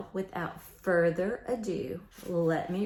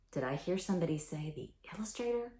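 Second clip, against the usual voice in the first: soft, quick teasing question; quiet, fast playful prompt; hushed; 6 dB quieter, much faster than usual. Real, not acted. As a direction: softly pretend you heard the answer. Teacher prompting children's answer.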